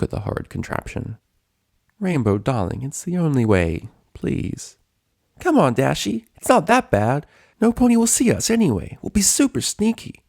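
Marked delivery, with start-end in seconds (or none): 2.0-4.8 gentle, refined pony pleading; a touch higher, coaxing lady; lightly voiced Rarity. 5.4-10.2 high, bouncy excited pony; much higher cheerful voice; bubbly Pinkie. Acted.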